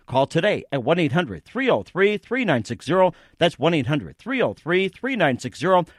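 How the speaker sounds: upbeat sponsor announcement; ad read. Acted. Radio host reading a sponsor ad to listeners, upbeat ad read. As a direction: sell it like a radio spot.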